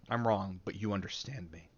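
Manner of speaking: quiet, low creepy murmur; serial killer. Pretend. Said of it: "like I'm a serial killer".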